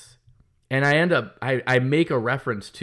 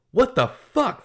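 high, loud what-the-fuck of disbelief; outraged outburst; 11 semitones higher, 4 dB louder, slower than usual. Retold or imitated. After hours of shouting at the supplier, an outraged outburst. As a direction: throw the words up in mock outrage.

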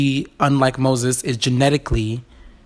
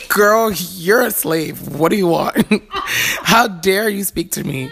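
haughty queen; 4 semitones higher than usual. Retold or imitated. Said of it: "the queen said".

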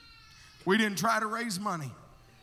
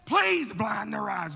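slow plea; slower than usual. Retold or imitated. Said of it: "Oh, God".

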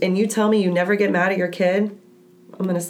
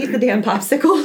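exasperated giving in; 3 semitones higher, 3 dB louder than usual. Retold or imitated. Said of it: "And then I say".

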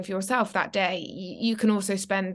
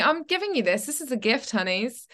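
God as fond parent; 4 semitones higher than usual. Retold or imitated. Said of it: "that's how he talks".

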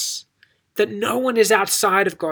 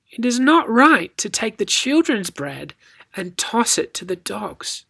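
playful line, slowing and dropping at the end; knowing tease. Shown as a demonstration. Jesus testing the woman playfully, teasing. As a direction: say it as a test, in on the joke. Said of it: "with a little bit of inflection".

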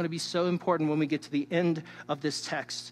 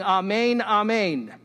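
louder amen, rising then falling; Jesus opening with amen; 2 semitones higher, 4 dB louder, slower than usual. Retold or imitated. Jesus opening his teaching, an urgent summoning amen. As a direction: call the room to attention. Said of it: "starts his teaching by saying".

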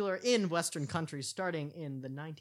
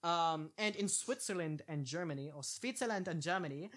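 put-on a failed, half-hearted German accent; attempted German accent; 4 semitones higher than usual. Host reading Swiss facts, badly faking a German accent. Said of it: "I can't do the accent".

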